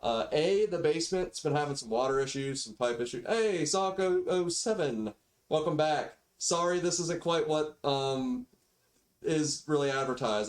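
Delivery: thin built-in microphone audio; cheap default mic. Real, not acted. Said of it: "sorry for the mic quality".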